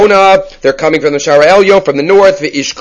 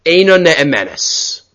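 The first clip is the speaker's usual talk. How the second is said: slow, hushed ruling; grave verdict; 4 dB quieter, much slower than usual. Retold or imitated. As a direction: deliver the two words slowly and softly, like a final verdict. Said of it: "and he says".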